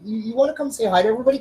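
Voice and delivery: quick, high coaxing to the dog; high pet voice. Real, not acted. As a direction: sing it to the dog, fast. Coaxing dog to greet viewers.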